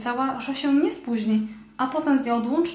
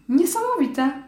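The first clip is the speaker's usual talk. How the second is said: high, louder squeak of wonder; a little mouse amazed and calling out; mouse exclaiming; 5 semitones higher, 4 dB louder than usual. Acted. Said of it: "zawołała myszka".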